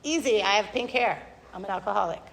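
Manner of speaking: offhand, like stating a hair color; easy, casual. Retold or imitated. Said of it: "I would say it just like".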